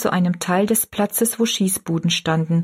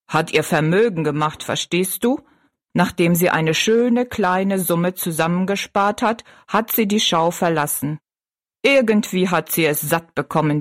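giant. Acted. Giant explains.

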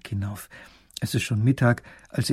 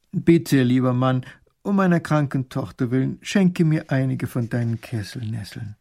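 humble call; 4 dB louder than usual. Acted. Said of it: "überwindet er seinen Stolz und ruft".

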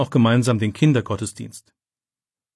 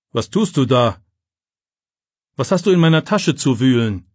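angry teacher; 5 dB louder than usual. A narrator's reading. Teacher catches boy at bag.

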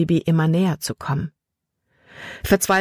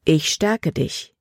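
slow reassurance; slower than usual. Acted. Gottes Antwort, erinnert.

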